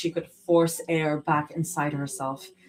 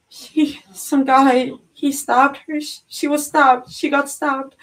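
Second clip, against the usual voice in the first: high, loud panicked babble; words spilling out in shock; breathless frightened rush; panicked babbling; 9 semitones higher, 7 dB louder than usual. A narrator's reading. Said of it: "Zoe babbled, words spilling out uncontrolled".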